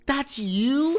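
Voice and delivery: high, loud mock shriek of disbelief; incredulous Korean lady. Customer retelling the return-desk lady seeing his ID, incredulous high squeal. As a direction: imitate her shrill, stunned question, pitch shooting up at the end. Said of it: "and she's like".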